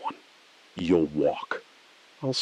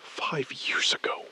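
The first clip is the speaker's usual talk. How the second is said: softer, barely voiced; whisper; 4 semitones higher, 8 dB quieter than usual. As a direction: breathe it out bitterly. Hushed bitter reply.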